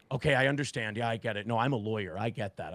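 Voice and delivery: imitating the lawyer caught using; mock sheepish reply. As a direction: back down meekly. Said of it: "He goes".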